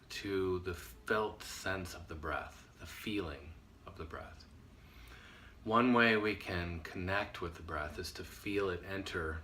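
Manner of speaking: softening, unhurried meditation guidance with pauses; guided meditation. Acted. Teacher leading listeners to feel the breath, gentle guided meditation. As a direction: ease them gently into feeling the breath, voice dropping at phrase ends.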